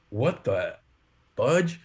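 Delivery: halting disbelief, a gap before the last word; retold bewilderment. Roommate in the kitchen finds something odd, halting bewilderment. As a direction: imitate a roommate stopped mid-thought, puzzled.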